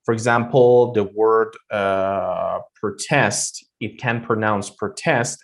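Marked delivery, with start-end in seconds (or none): 2.8-5.4 "protest" with the second syllable strong, pro-TEST; stress on TEST. Shown as a demonstration. Teacher showing one way to pronounce it, second syllable stressed. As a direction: hit TEST in "protest", keep pro short. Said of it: "we can also pronounce it".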